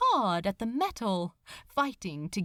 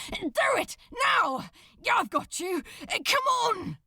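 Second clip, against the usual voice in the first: urgent shout; 10 semitones higher than usual. Acted. Crowley urges Aziraphale to pull himself up, shouting. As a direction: push him to do it now. Urging climb.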